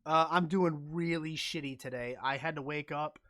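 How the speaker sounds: talking with a numb face; numb from the dentist. Real, not acted. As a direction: mouth half numb after a root canal. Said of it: "half of my face is still numb".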